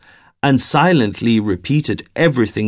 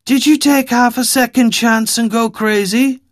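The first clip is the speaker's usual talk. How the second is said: much higher, mocking Eastern European accent; suspicious Eastern European woman; 11 semitones higher than usual. Wary woman questioning a stranger's sanity, Eastern European accent. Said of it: "thick Eastern European accent in her voice".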